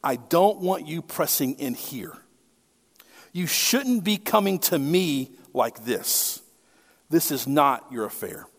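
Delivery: lightly voiced demon telling Jesus to back off; demon's warning. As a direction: push him back, cold and distant. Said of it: "the main idea of this phrase is this".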